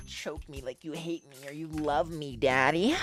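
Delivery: slow, drawn-out begging, lifting at the end; hammed-up needy purr; mock seductive plea.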